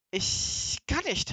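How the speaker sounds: high, loud, drawn-out wail; wailed complaint; wailing protest. Acted. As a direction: stretch it out helplessly and loudly. Tied robber answers policeman's order.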